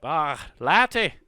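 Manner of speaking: Irish accent. Shown as a demonstration. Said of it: "fun accents you could do, how about Irish?".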